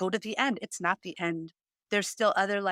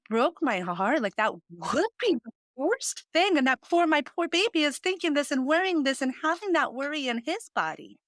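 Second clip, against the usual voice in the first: getting emotional; 5 semitones higher than usual. Real, not acted. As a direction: voice rising higher, choked up with real emotion. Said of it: "getting emotional".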